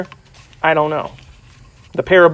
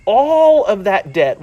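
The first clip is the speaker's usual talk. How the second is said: stern king; slower than usual. Acted. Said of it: "the king says".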